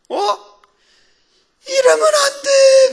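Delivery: high, loud mock wail, drawn out; acted tearful protest. Young believer reading about the Cana wedding, wailing protest. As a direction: cry out in dismay as if reliving it. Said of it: "그러면서 막 울었어요".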